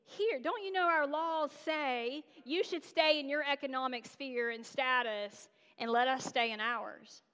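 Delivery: slow, lightly voiced snobby disbelief; a hint of looking down your nose; incredulous snob. Classmate lecturing her on economic spheres, mild snobby disbelief. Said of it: "dripping with just this incredulous".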